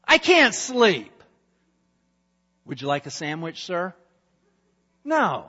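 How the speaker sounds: a sleepless king ordering his servant about; restless king. Acted.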